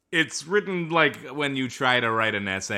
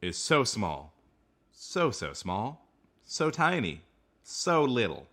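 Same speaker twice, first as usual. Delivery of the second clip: dramatic poem reading; slower than usual. Acted. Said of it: "your voice is very, well fitted to this reading".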